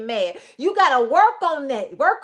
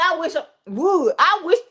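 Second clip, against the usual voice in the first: a hint of a sassy comedian; mildly sassy dare, like a comic God; Cedric the Entertainer. God warns anyone against touching Cain, lightly sassy. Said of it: "God came in like Cedric the Entertainer".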